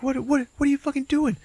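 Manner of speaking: high, stammering mock alarm; retold shock. Frank confronting Barry over the head, shocked. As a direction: stammer out high-pitched disbelief.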